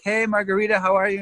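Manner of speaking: lightly put-on upbeat greeting; acted friendly greeting.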